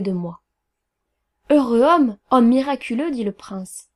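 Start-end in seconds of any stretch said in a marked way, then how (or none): 1.5-3.1 loud, emphatic princely acclaim; admiring exclamation. Acted. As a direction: exclaim it grandly, louder. Prince acclaims the narrator's brilliance.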